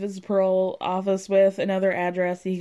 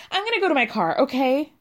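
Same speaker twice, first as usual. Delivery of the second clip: mock-heated, higher and a bit louder; angry threat; 4 semitones higher, 4 dB louder, faster than usual. Girlfriend storming off to the car, heated mock threat. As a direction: fire it off like a storming-out ultimatum. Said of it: "But it's never like".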